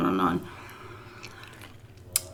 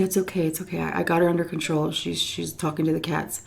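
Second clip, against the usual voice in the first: soothing; 7 dB quieter than usual. Retold or imitated. Comforting the crying woman.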